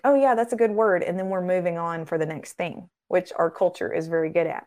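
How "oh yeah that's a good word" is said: higher, louder breezy mock brush-off; dismissive shrug. Mocking believers who shrug off God's word, breezy. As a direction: toss it off like it means nothing. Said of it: "and not think".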